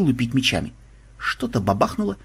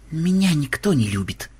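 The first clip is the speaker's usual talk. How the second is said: plaintive, self-pitying moan; acted woeful whine; bitter complaint; 3 semitones higher than usual. A narrator's reading. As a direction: lament it bitterly without raising the volume. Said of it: "горько пожаловался Ксенобайт".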